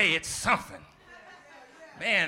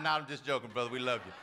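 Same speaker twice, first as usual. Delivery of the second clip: lower, gentle take-back; reassuring; 8 semitones lower, faster than usual. Real, not acted. Preacher reassuring Guido after teasing him, lower and gentle. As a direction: soften it right after the tease. Softening tease.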